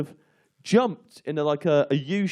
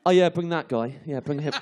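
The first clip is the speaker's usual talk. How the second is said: rallying troops. Retold or imitated. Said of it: "like I'm rallying my troops".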